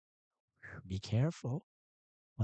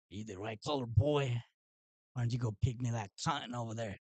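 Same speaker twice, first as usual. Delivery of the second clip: mock Southern accent. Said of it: "Am I using the proper accent right now".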